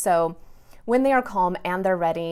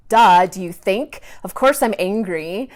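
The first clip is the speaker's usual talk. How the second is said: sassy; 7 dB louder than usual. Retold or imitated. Daughter snapping back at mom's question, sassy. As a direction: imitate a sassy kid's comeback. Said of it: "she might give me a really sassy response".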